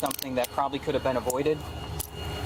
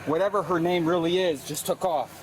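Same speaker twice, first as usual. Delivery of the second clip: winded after a foot chase; breathless, still catching air; out of breath; 4 semitones higher than usual. Real, not acted. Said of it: "I'm a little out of breath".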